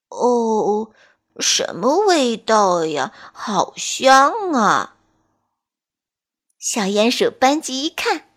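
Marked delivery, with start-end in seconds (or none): 0.1-4.9 slow, drowsy waking voice; sleepy tortoise. Acted. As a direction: yawn it out slowly. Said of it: "小乌龟慢吞吞地说".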